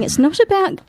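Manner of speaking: a hint of a high, self-righteous cat; high preachy cat. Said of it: "the cat's going".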